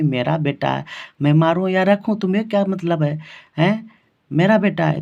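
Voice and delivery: mildly acted indignation, pitch lifting midway; imitated angry retort. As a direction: play an offended mother pushing back. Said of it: "Najamma को गुस्सा आ गया". (गुस्साई बहू की हल्की नकल)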